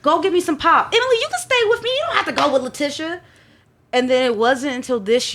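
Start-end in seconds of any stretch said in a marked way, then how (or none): 0.0-3.2 imitating mom's sweet voice. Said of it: "she was like".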